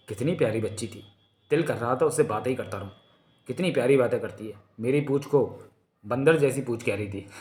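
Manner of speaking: tender, smiling musing; fond murmur with a smile. Acted. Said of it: "कोबी सहसा ही मुस्कुरा उठा".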